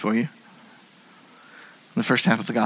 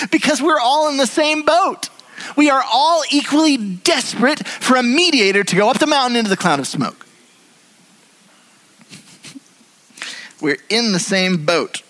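laughing; 9 semitones higher than usual. Real, not acted. Laughing while preaching.

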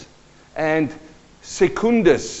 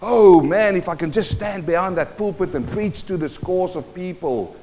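eager; 2 semitones higher than usual. Retold or imitated. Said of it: "they are so eager to do what?".

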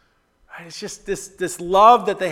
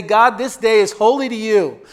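believer's prayer; 4 semitones higher than usual. Acted. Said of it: "we say".

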